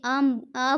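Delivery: आम and आ slowly stretched; extra-long vowel. Shown as a demonstration. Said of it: "बहुत ज़्यादा स्वर लग रहा है".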